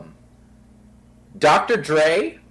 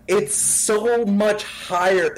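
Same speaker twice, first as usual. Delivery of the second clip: much higher, slow "so much higher"; mock high voice; 8 semitones higher, much slower than usual. Co-host exaggerating a rapper's pitch, much higher and slow. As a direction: stretch it out way up high. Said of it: "I'm exaggerating".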